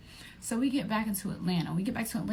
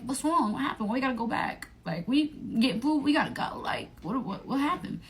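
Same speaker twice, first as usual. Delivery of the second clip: mock alarm; 6 semitones higher than usual. Alarmed questions to friend.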